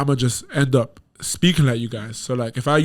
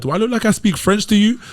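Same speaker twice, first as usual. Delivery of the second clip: louder and higher, incredulous; retold exasperated comeback; 8 semitones higher, 3 dB louder than usual. To people asking about French, higher and incredulous. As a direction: throw the question back, exasperated. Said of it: "I'm like".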